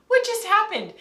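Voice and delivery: puzzled, half-laughing disbelief; mock bewilderment.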